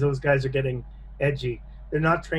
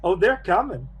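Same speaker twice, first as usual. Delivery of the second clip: eerie hidden voice; 4 semitones higher than usual. Acted. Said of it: "you hear a voice say".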